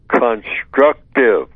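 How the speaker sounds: CONSTRUCTIVE drawn out slowly, set apart by pauses; slow, deliberate weight on "constructive"; emphatic key word. Real, not acted. Guest names the one word that stands out in codification, slow and emphatic.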